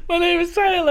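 teasing imitation of a friend's intro; mock Tyler intro. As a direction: parrot his name like a kid on a game show. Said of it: "Why'd you say it like that?".

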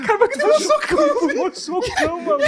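high laughing complaint, near crying; laughing and whining. Real, not acted. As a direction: squeal it through laughter. Laughing after being punched.

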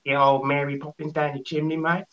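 Australian. Shown as a demonstration. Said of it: "I'm going Australian now".

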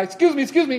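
high polite excuse me, excuse me; a courteous little honk. Retold or imitated. Telling the pickup driver excuse me, high and polite. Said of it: "I said to the guy".

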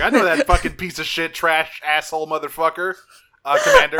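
put-on a boyish robot voice cursing, squeaking up loud on the last word; Alphonse Elric voice. Bumblebee swears about Wasp to the president, Alphonse Elric voice. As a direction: play an eager kid robot who lets rip with curses, then jumps high on the title. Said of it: "Alphonse Elric voice".

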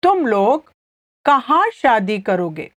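fast, natural तुम लोग कहाँ शादी करोगे; natural pace. Shown as a demonstration. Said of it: "I'll say it again slowly".

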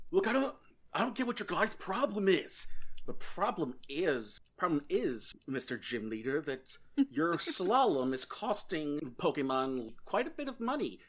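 exasperated official complaining; huffy businessman scolding gym leader; irritated businessman. Acted.

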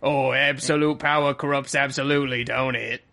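put-on comic English commoner accent; mock English accent. Co-host quoting as the pig, mock English accent. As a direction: put on a chummy English accent for a tag question. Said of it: "That's all the accents".

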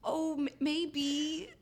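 hesitant dodge. Retold or imitated. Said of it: "a lot of guys would have been like".

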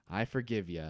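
humble whisper. Acted. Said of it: "he humbly whispers to the coffin".

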